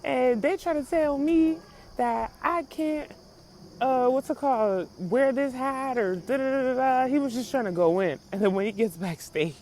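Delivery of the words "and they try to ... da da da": higher-pitched mock grievance; mock whiny complaint. Retelling a rapper's stage complaint, mock aggrieved. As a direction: imitate someone complaining he was picked on.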